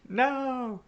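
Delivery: very high, loud drawn-out mock yell; imitated shouting. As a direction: mimic someone hollering from behind. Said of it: "I just hear him shouting".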